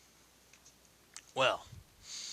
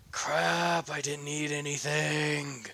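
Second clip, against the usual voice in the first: raised, drawn-out grumble of dismay; exasperated realization; 3 semitones higher, slower than usual. Acted. Hungry hero hears his stomach growl, exasperated. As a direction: complain as it dawns on you.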